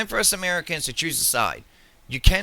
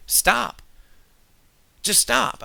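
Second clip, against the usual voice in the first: angry stop; 8 semitones higher, much slower than usual. Real, not acted. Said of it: "I'm gonna settle down".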